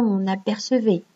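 "on apercevait" linked with an n sound; liaison. Shown as a demonstration. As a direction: join "on" to "apercevait" through the n. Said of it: "Parce qu'on fait la liaison". (« on apercevait » avec la liaison en n)

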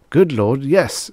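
agitated. A narrator's reading. Startled lawyer answering the stewardess, agitated. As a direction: exclaim in agitation.

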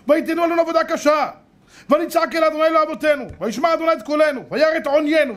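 high-pitched, sustained declaiming; shouted recitation. Shown as a demonstration. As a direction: belt out each verse on one high pitch. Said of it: "אתה צריך לצעוק לכהן באוזן".

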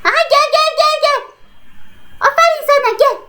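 slow, sweet coaxing; tender coaxing. Real, not acted. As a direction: draw out each word lovingly. Coaxing friend's character slowly.

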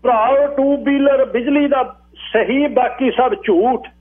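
high, drawn-out public call; high crier's proclamation; hawker-like crier. Acted. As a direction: call it out slowly, pitched high.

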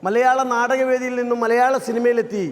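mimicry show introduction, name drawn out; stage announcer. Real, not acted. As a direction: announce the act to a hall. Host announces next impression. (Stage അവതാരകന്റെ ശൈലി)

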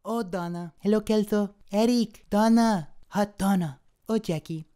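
lightly voiced foreign exchange student; Fez accent. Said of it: "Fez from That Seventies Show".

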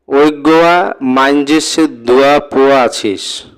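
reading a line in Chittagonian dialect, lightly voiced; চট্টগ্রামের আঞ্চলিক টানে পড়া. Shown as a demonstration. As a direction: sound it out as a Chittagong villager would say it. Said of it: "যেমন বাংলাদেশের চট্টগ্রাম অঞ্চলের আঞ্চলিক ভাষারীতি".

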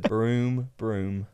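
engine vroom sound; race car zooming past. Shown as a demonstration. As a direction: rev like an F1 car. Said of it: "Best race car impression".

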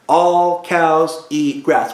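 drawn out word by word, very slow; slow teacher chant; very slow mnemonic. Shown as a demonstration. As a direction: stretch each word out for the class. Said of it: "One more time".

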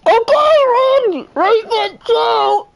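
high, loud barked commands; hammed-up shouted callouts; mock drill-sergeant calls. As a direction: shout orders like a squad leader. Calling out commands mid-game.

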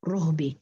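رهب as ruhbi, low; rounded u on ra. Shown as a demonstration. Teacher repeating the damma reading, u on ra. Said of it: "قرأ بضم الراء".

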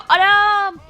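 loud high exclamation; sudden loud gasp of surprise; startled cry. Real, not acted. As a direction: cry out in shock.

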